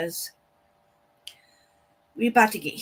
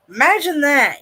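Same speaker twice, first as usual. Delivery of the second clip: sarcastic; 5 semitones higher, 8 dB louder than usual. Real, not acted. Sarcasm about pricey bad internet.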